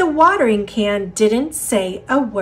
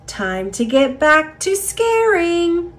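eager little seed; 7 semitones higher than usual. Acted.

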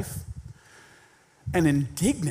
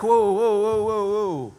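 startled whoa; 4 semitones higher, 4 dB louder, slower than usual. Retold or imitated. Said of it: "anybody who's around Jesus was like".

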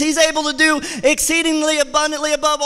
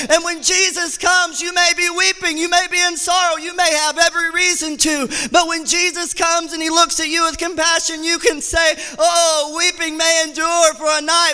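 preaching at full force; 3 semitones higher than usual. Acted. Preacher at the climax to the church, fervent. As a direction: drive it home with fervor.

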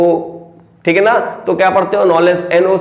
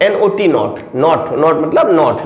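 slow repetition; 3 semitones lower, much slower than usual. Shown as a demonstration. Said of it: "यहाँ पे एनओटी है not".

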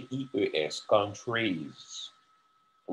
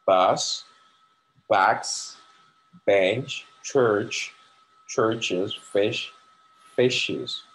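slow drill; 5 dB louder, much slower than usual. Shown as a demonstration. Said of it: "Premye, jan m di nan".

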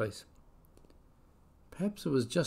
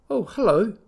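put-on high small child voice; timid little kiwi greeting; 10 semitones higher, 6 dB louder than usual. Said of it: "Kiwi replied".

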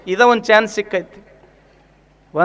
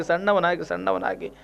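ಸಣ್ಣವನಾಗಿ repeated, dropping lower and softer; fading echo; 4 semitones lower, 10 dB quieter than usual. Acted. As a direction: let ಸಣ್ಣವನಾಗಿ fade away low. Preacher echoes word fading. (ಸಣ್ಣವನಾಗಿ ಮೆಲ್ಲಗೆ ಇಳಿದು ಮಾಯವಾಗುವಂತೆ)

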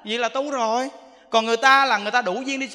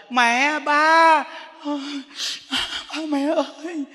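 higher-pitched imitation of a weeping child; mock tearful pleading; 4 semitones higher, much slower than usual. Child clinging to a dying parent, mock weeping. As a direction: beg in broken, put-on sobbing calls. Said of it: "Nó khóc lóc nè".

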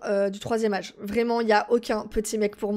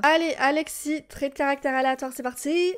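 funny put-on voice; 3 semitones higher than usual. Real, not acted. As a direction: play it up like a cheery game host. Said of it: "Pourquoi je parle comme ça?".

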